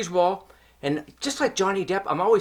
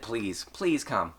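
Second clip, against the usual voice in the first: slow, soft mock plea to the police; mock pleading on phone; 6 semitones lower, 6 dB quieter, much slower than usual. Imitating his partner begging the police on the phone, mock pleading. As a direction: imitate her fake pleading, drawn out. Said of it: "she even said".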